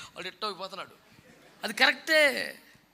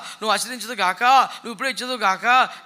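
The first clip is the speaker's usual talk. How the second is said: mocking demanding prayer; 8 dB louder than usual. Preacher mimicking a believer who makes demands in prayer. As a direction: parody a man ordering God about. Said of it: "ఇది ఒకటే వచ్చు ఆడికి".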